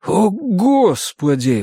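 slow, high sighed-out exclamation; exhaled exclamation. A narrator's reading. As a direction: breathe it out slowly in dismay. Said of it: "выдохнул я". (протяжно, на выдохе)

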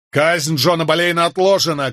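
high, urgent call; shouted announcement. A narrator's reading. Lawyer to the soldier blocking the scaffold, urgent shout. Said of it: "крикнул я".

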